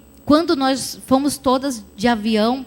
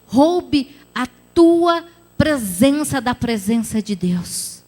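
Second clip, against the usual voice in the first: forceful preaching; 2 semitones higher than usual. Acted. Pastor urging the congregation tonight, full preaching force. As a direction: press the congregation with urgent conviction. Closing altar call.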